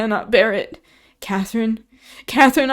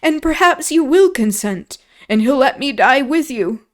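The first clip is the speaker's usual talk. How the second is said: higher, louder, frantic begging; terrified boy begging Catherine not to leave; desperate pleading; 5 semitones higher, 5 dB louder than usual. A narrator's reading. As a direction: plead for your life through tears. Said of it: "he sobbed".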